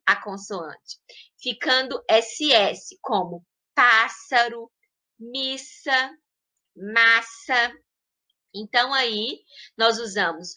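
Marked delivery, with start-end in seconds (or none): 3.7-7.7 unvoiced hissing S in pássaro, missa, massa; SS com som de S. Shown as a demonstration. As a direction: keep the double S a clean S, never Z, in missa, massa. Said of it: "se mantenha a pronúncia S". (SS com som de S em pássaro, missa, massa)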